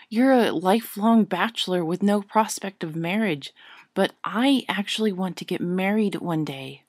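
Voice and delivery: rising to loud exasperation; lightly voiced indignant witch; exasperated young witch. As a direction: tell him he's being unfair. Hermione's exasperated reply.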